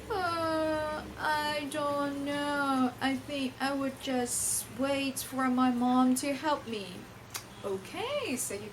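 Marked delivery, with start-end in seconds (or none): 0.1-6.9 put-on slow, whimpering little kid; pretend child. Teacher voicing a pupil who would wait for mom, whimpering. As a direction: whine it like a helpless child.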